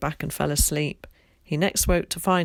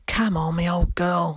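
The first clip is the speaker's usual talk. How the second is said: loud, happy call to the horse; delighted yell; 5 dB louder than usual. A narrator's reading. Tom urging his horse homeward, loud delighted yell. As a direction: urge the horse on with joy. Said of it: "he yelled in delight".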